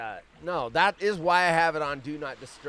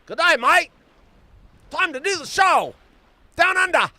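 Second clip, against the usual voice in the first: loud, high-pitched bad Australian impression; mock Australian accent, pitched way up; horrible Australian accent; 11 semitones higher, 9 dB louder than usual. Shown as a demonstration. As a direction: belt out a hammed-up Aussie greeting. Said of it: "Don't the Australians do it like this?".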